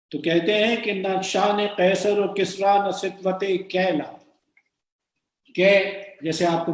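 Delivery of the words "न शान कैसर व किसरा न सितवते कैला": poem recitation. Acted. Recites a verse line.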